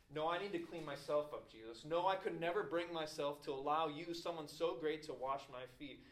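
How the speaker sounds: emphatic mock protest. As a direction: insist on it, pushing the help away. Acts out proud refusal to Jesus.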